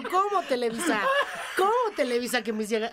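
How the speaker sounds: incredulous retort, half laughing; mock indignation. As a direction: play baffled outrage at an absurd order. Acts out protest at the director's note.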